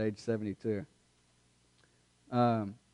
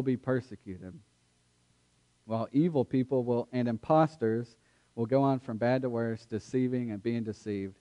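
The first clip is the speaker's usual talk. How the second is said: measured, steady Bible reading; scripture reading. Acted. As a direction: read the passage with solemn care. Reads scripture aloud before sermon.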